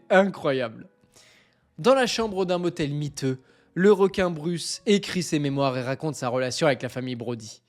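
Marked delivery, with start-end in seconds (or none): 1.8-7.6 lower, measured storytelling read; story reading. Acted. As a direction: read it like a tale. Reads the scenario aloud. (lecture d'histoire posée, voix plus grave)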